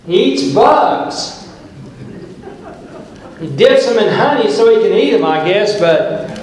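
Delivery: high-pitched, worked-up preacher; excited pulpit storytelling; animated preaching. Real, not acted. Animated preaching about a wild man.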